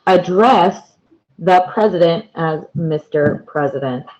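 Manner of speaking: "Address" stressed on the second syllable, uh-DRESS; light first syllable, punch the DRESS in "Address"; verb stress on second syllable. Shown as a demonstration. Teacher showing learners the verb "Address", second-syllable stress. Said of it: "it is pronounced different here".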